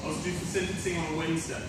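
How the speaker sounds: low, soft, halting aftermath; subdued confession. Acted. Fallen rock star admits the damage, low and subdued. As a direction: confess it quietly, with long pauses.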